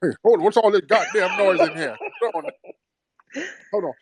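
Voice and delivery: put-on high, grumbling elderly patient; cranky old man voice. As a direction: whine like a bossy old invalid. S0 acts a demanding old patient.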